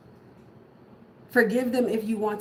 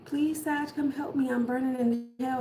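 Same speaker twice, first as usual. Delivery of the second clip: mock plea; 4 semitones higher than usual. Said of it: "somebody reaching out from the pits of hell".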